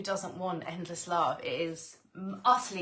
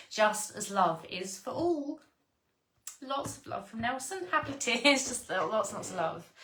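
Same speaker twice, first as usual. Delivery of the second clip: happy tears; 3 semitones higher than usual. Real, not acted. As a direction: voice lifting higher with moved, tearful joy. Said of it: "Oh, it makes me wanna cry".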